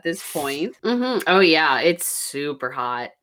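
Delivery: congested, blocked-nose voice; stuffy nose. Real, not acted. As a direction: mouth breathing through a stuffed-up nose. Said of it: "all of the mouth breathing".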